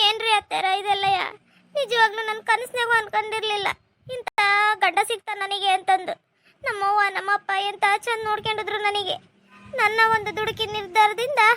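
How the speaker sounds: crying while she talks; tearful lament. Acted. Daughter-in-law laments to her mother-in-law, crying. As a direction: mourn the husband she got.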